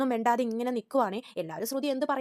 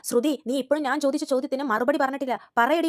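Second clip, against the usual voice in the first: angry demand; 2 semitones higher, 4 dB louder than usual. Retold or imitated. Aunt demanding an answer.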